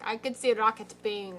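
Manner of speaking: a light Sokovian accent, mock Wanda. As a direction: quote it with a faint Wanda accent. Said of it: "I sounded like Wanda".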